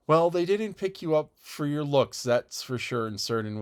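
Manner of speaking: mild emphatic put-down; emphatic comment. A narrator's reading. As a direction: pronounce it as settled fact. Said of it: "Missus Rachel Lynde's emphatic comment".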